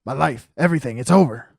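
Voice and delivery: loud despairing wail; wailing client. Acted. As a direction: cry it out like all is lost.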